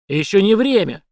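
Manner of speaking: громко, выше, с нажимом на время; обрывает спор; резко отрезает. A narrator's reading. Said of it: "отрезал Шекет". (резкий отказ)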